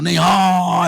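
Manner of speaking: laughing through a reluctant no; amused half-refusal with a laugh; laughing reply. Retold or imitated. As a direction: chuckle while playing hard to get. Acting out his reluctant reply.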